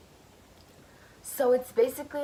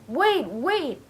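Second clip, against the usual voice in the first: higher, louder mock cry of "wait"; retold scream; 7 semitones higher, 5 dB louder than usual. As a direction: imitate a plea called out, voice leaping up. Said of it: "I stepped up and screamed".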